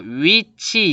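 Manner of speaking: 위 in 위치 as gliding "wi"; everyday gliding 위 in 위치. Shown as a demonstration. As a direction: say 위치 with w moving into i. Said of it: "이렇게 발음하잖아요".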